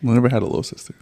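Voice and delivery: breathy, unvoiced whisper; whispered aside. Real, not acted. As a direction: let it slip out under your breath. Quiet aside about siblings.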